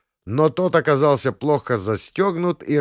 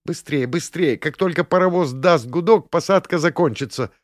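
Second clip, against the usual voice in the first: hurrying; 6 semitones higher than usual. A narrator's reading. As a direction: rush him along anxiously. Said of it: "торопила меня барышня".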